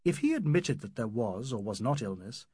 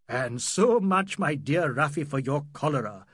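hooting; 5 dB louder than usual. Acted. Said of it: "hooted Aziz".

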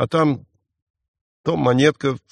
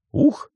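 высокое «ух»; 13 semitones higher than usual. Acted. Девочка изображает удар.

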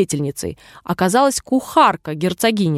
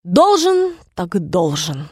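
sadly; slower than usual. A narrator's reading. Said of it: "грустно проговорил король".

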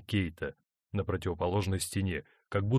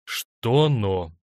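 insistent; 3 semitones higher, 7 dB louder than usual. A narrator's reading. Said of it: "настойчиво допрашивал он".

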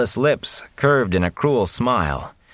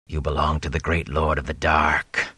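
low, soft, grating menace; a grating hiss like nails on slate; breathy grating voice; 5 semitones lower, 4 dB quieter than usual. A narrator's reading. The Fade claiming Rand for the dark lord, breathy and grating. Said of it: "The breathy grating of that voice".

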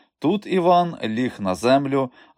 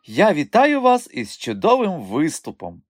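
flattering madame; 7 semitones higher, 3 dB louder than usual. Acted.

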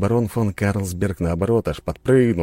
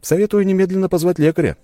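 smirking advice; 13 semitones higher, 6 dB louder, faster than usual. A narrator's reading. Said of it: "усмехнулся я".

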